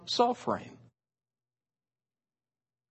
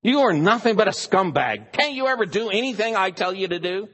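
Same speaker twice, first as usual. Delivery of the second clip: mock angry husband; 5 semitones higher, 4 dB louder, faster than usual. Husband insulting his wife.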